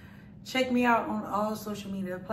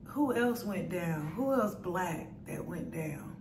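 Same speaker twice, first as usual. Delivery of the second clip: slightly muffled by fingertips; speaking with fingers on lips; 4 dB quieter than usual. Real, not acted. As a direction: hand partly covering mouth. Seen 2: Fingertips rest on lips most frames; hand briefly lowered near 5.4.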